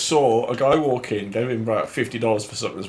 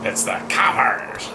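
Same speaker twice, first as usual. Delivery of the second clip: whisper; much slower than usual. Pretend.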